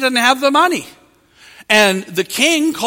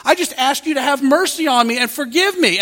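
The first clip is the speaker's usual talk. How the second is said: higher, begging for mercy; pleading; 5 semitones higher than usual. Acted. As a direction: plead with the king, voice lifted. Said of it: "he pleads and he says".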